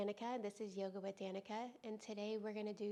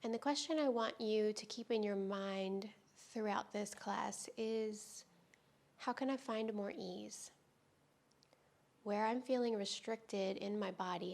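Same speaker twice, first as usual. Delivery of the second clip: calm, unhurried yoga teacher with long pauses; guided yoga meditation; 5 dB louder than usual. Real, not acted. Teacher easing students into restorative yoga, calm guided-meditation delivery. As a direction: guide them gently through breath and stretch, leaving space between phrases.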